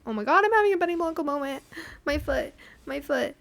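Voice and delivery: high, fast flustered babble; panicked gush. Retold or imitated. To herself at the counter, a fast flustered gush. Panicked inner voice in awkward moment.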